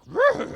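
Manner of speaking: loud, high startled cry; startled creature noise. Acted. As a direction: recoil with a loud animal noise. Creature jolted by the smell.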